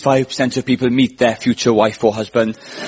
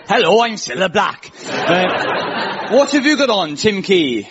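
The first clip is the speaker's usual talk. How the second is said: lightly voiced Welsh impression of a singer; a hint of Welsh, asking what he wears; 4 semitones higher, slower than usual. Host doing the impression with a light Welsh accent. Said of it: "pretend Scylla's from Swansea".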